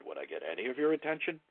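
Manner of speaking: light emphasis across "any of your attention"; emphatic voice inflection. Shown as a demonstration. Trainer repeating the underlined question, light emphasis on "any of your attention". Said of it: "it puts emphasis on the words".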